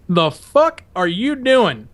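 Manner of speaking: slow, drawn-out menacing demand; drill instructor. Retold or imitated. Drill instructor in a recruit's face, slow and menacing. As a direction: drag it out like a sergeant in your face. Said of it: "he goes".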